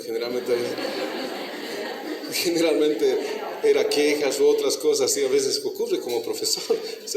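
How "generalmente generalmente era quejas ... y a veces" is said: risa suelta antes de repetir la palabra; reírse de lo que venía siempre; riendo. Real, not acted. Recuerda riendo las quejas. (el profesor recuerda las quejas de los padres, riendo)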